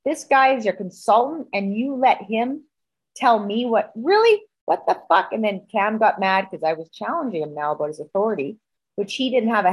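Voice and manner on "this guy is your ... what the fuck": retold indignant challenge, rising into disbelief; worked-up, accusing retelling; angry confrontation. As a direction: challenge him, pitch jumping on the incredulous bit. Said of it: "madder than a hornet".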